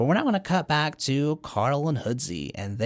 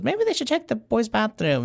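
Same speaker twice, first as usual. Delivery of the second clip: mock teacher voice; 11 semitones higher than usual.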